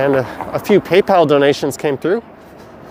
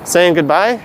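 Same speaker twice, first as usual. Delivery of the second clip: muffled. Real, not acted. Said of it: "Sorry if I sound muffled. I just left my mask on".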